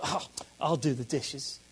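low, soft, grudging sigh of an offer; reluctant. Shown as a demonstration. Husband to wife, a reluctant, grudging offer. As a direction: drag it out like a grudging chore. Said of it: "the tone is not kind".

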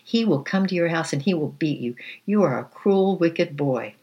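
put-on outraged small boy shouting, near tears; angry child. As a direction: hurl it at the bully like a wronged child. Crying boy threatens bully.

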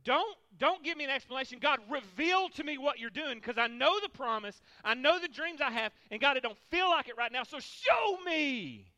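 pleading prayer. Shown as a demonstration. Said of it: "We should say".

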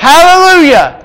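high, loud hallelujah shout; exultant call-out. Real, not acted. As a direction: call it out for the congregation to answer. Calling out to congregation for response.

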